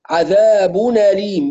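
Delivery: عذاب أليم run together, hamza dropped, vowels even; measured vowels, naql. Shown as a demonstration. Teacher shows students the linked reading, measured vowels. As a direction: link عذاب أليم as "adhabu-naleem", no stretching. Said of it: "بدون تمطيط ولا اختلاسات".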